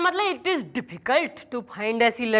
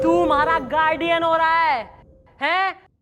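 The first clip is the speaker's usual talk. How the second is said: indignant scolding; 2 semitones higher than usual. Acted. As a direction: put the meddler in their place. Scolding the meddling helper. (चिढ़कर डाँटते हुए)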